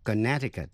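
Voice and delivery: "Connecticut" with the middle c silent, like "kuh-NET-i-cut". Shown as a demonstration. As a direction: drop the second c in "Connecticut". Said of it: "câm không đọc". ("Connecticut" với âm c giữa câm)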